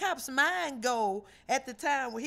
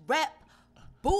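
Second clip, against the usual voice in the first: hood voice; 5 semitones higher, 4 dB louder than usual. Shown as a demonstration. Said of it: "My hood voice".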